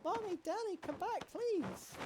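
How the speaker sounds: put-on high tearful little girl begging parents to come back; a child left alone, calling Mommy and Daddy; crying child calling.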